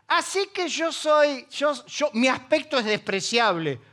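slow, amused, incredulous repeat; laughing disbelief. Retold or imitated. Pablo laughing at the insult, slow incredulous disbelief. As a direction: laugh it off in mock offense. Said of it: "Pablo recibe y dice".

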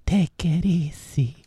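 put-on slow whispered Hispanic accent. Co-host echoing the meme catchphrase, whispered Hispanic accent. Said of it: "I love your Hispanic accent".

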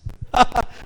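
short chuckle at own joke; amused laugh. Real, not acted. Preacher jokes about pesky boys, short laugh. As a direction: laugh briefly after the punchline.

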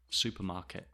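"Supermarket" with the T released; careful final T. Shown as a demonstration. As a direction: sound the last T. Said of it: "the T at the end of words".

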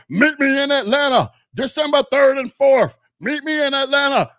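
loud, high, furious imitated yell; mock him shouting a challenge; hammed-up angry challenge shouted. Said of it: "getting this irate and angry".

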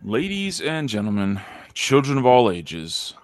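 booming ringmaster opener. Pretend. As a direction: announce it like a circus ringmaster. Podcast opener as circus announcer.

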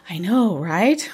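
slow, laughing I know right; laughing agreement. Retold or imitated. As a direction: agree with a chuckle, slowly. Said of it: "She goes".

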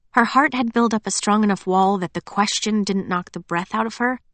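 plain reading voice

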